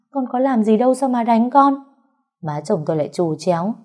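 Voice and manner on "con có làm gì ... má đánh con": higher and louder, hurt and furious; indignant daughter-in-law shouting at her mother-in-law; angry protest. Acted. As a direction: fire it back at the mother-in-law. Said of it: "Tôi nhìn bà giận dữ".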